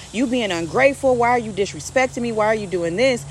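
mock-scold an ungrateful son; scolding parent. Father scolding his lashing-out son, mildly angry.

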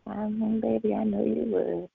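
soft, calm and sweet; imitating a calm, loving mother. Mother calmly answers her excited child, soft and sweet. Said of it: "She's so calm".

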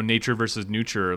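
"nurture" without its first R, like NOO-cher; mispronounced nurture. Real, not acted. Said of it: "I like how you said nurture".

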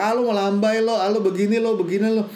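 lightly acted teasing; mock taunting. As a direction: imitate boys making fun of him. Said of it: "dia dicela sama teman-teman cowoknya".

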